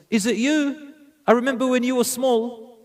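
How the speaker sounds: light surprise at seeing her grown; pleasantly surprised. Retold or imitated. Prophet greeting the grown orphan girl, pleasantly surprised.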